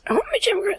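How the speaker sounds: breathy high whisper of a fake demand; joking whisper. Teasing her friend in a whispered joke demand.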